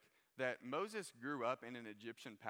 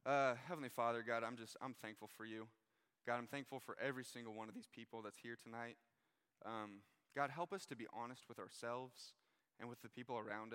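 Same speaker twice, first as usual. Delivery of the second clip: prayer. Acted. Pastor prays before the reading.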